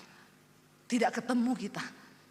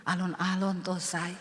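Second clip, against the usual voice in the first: lower, softer, gentle pleading; husband gently asks wife to talk softer; soft Javanese husband; 4 semitones lower than usual. Retold or imitated. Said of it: "Dia bilang".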